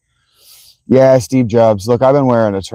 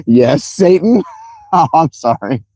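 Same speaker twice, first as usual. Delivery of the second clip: lightly voiced comic double-take, higher questioning start; Ace Ventura; 4 semitones higher than usual. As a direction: ask brightly, laugh, then drop into an apology. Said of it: "was Ace Ventura turning around and going".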